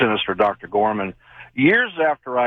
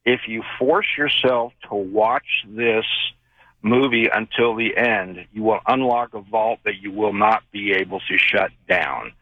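clear warning voice. Retold or imitated. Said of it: "that clear voice came into my head again, very loud".

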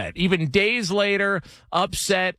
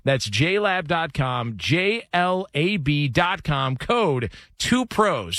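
upbeat sponsor read, slowing on the code; smooth host-read commercial. Acted. Host reading the J lab sponsor spot, upbeat ad read.

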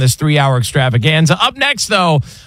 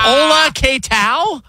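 mock Spanish greeting; 10 semitones higher, much slower than usual. Spanish bit.

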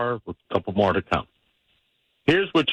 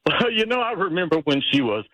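turn it into a laugh; 7 semitones higher than usual. Shown as a demonstration. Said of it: "you turn that into a laugh".

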